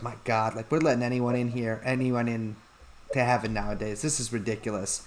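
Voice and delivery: low, soft exasperated grumble; God complaining quietly about heaven's standards; grumbling aside. Acted. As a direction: mutter it under your breath.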